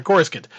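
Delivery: "Coruscant" squeezed to CORE-skint; their old pronunciation. Shown as a demonstration. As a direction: say "Coruscant" as CORSE-kund, two beats. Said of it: "We got it Coruscant".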